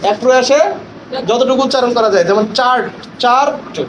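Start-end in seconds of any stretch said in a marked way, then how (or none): 2.6-3.7 চার্ট as one single syllable, repeated; one-breath syllable. Shown as a demonstration. Trainer explains syllables to teachers, চার্ট said in one effort.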